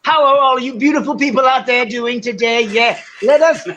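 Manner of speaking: imitating Greg's show intro. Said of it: "he does the whole thing".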